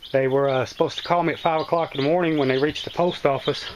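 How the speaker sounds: breathing hard after a climb; winded, talking between breaths. Real, not acted. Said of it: "I'm a little out of breath".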